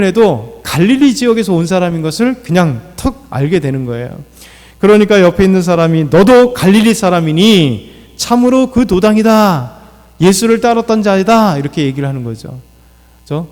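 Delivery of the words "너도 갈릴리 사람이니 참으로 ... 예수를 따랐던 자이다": mildly raised accusing voice, higher on the later phrases. Acted. Bystander accusing Peter of being one of them, accusing. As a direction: point out the suspect, pitch climbing a little.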